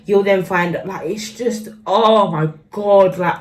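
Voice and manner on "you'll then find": imitating mother. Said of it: "I'm literally replying".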